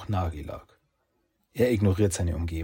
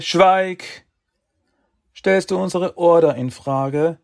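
loud, high furious command; angry shout; 10 semitones higher, 9 dB louder, slower than usual. Acted. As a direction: bark the order to silence. Sages shout him down.

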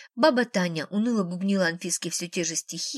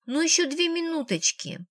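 put-on higher, pleading child's whine; whining child; 7 semitones higher than usual. A narrator's reading. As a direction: beg like a sulky little girl. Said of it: "заныла девчонка". (капризное нытьё)

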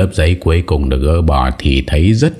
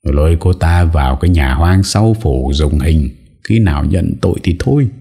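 commanding. Acted. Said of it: "hất hàm ra lệnh".

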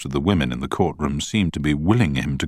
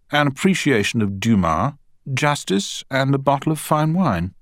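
high-pitched witness character voice; higher-voiced man in the witness box; witness testifying; 10 semitones higher than usual. A narrator's reading. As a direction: list it in a raised, self-assured voice. Witness Payne answering in court.

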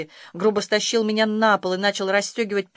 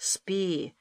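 growled; 5 dB quieter than usual. A narrator's reading. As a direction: cut her off with a growl. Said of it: "прорычал папочка".

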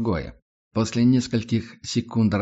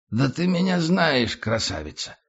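put-on drunk voice; 5 semitones higher than usual. Tramp keeps talking drunk.

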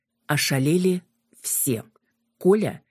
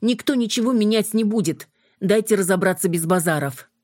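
commanding; 6 semitones higher than usual. Acted. Юля командует, останавливая ссору.

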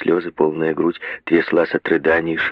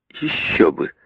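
bitter exclamation; slower than usual. A narrator's reading. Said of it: "с горечью воскликнула Агнес".

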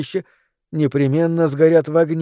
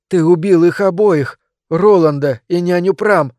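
higher, slightly louder outburst; exhaled accusation; 4 semitones higher, 4 dB louder than usual. A narrator's reading. Heroine accusing the monster of two killings, appalled. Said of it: "выдохнула я".

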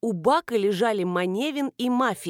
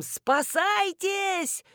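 drawn-out yell; 10 semitones higher, much slower than usual. A narrator's reading. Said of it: "с воплем".

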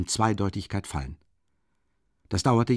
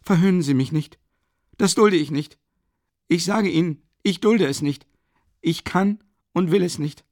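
high, loud angry yelling; raging cry, pitched high and loud; furious shout; 7 semitones higher, 5 dB louder than usual. Acted. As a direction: shout him down in fury. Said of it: "schrie er".

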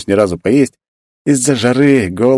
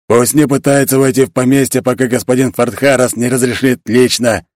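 genie growl; 4 semitones higher than usual. Acted. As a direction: snarl the order as a fire spirit. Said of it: "прорычал джин".

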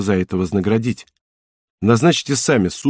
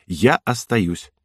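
triumphant smile; much slower than usual. Acted. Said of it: "с торжествующей улыбкой".

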